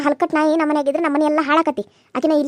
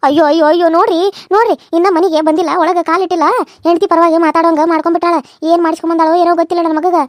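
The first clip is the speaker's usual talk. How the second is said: loud lamenting cry of ayyo; loud wailing complaint; 4 dB louder than usual. Acted. Mother loudly wailing to her husband about the son. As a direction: wail it to the whole house, louder.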